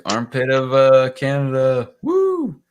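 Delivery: toast cheer. Real, not acted. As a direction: shout the toast to the group. Repeating the drinking toast.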